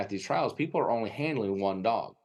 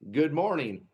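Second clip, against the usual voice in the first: put-on Wisconsin accent; 5 semitones higher than usual. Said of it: "in the thickest Wisconsin accent she had ever heard".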